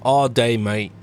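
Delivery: attempted Aussie twang; put-on Australian accent; mock Australian accent. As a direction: imitate an Australian, not very well.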